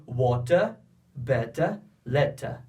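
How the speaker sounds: water, better, letter with a crisp, hard t and no final r; British pronunciation. Shown as a demonstration. Teacher contrasting British with American pronunciation. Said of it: "Para os britânicos".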